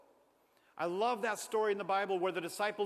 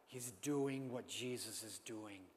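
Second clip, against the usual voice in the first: slow quiet emphasis; 7 semitones lower, 8 dB quieter, slower than usual. A narrator's reading.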